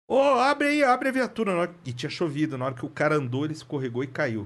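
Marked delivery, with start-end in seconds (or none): 0.1-1.5 raised, high call to the officers; lieutenant barking an order, raised and high. Retold or imitated. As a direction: shout the order across the street. Lieutenant calls to open car.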